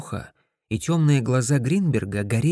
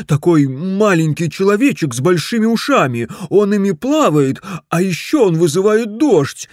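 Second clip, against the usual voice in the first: louder, higher, eager telling; eager explanation; 6 semitones higher, 6 dB louder than usual. Acted. Husband tries to convince his wife about the gnome. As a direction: rush to convince her.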